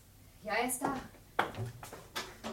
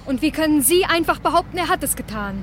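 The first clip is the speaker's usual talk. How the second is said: indignant retort; 3 semitones higher, 6 dB louder than usual. Acted. Wife arguing back.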